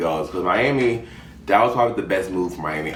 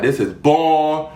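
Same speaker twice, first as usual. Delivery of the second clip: bored mock complaint; 6 semitones higher, slower than usual. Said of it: "'cause I'm like".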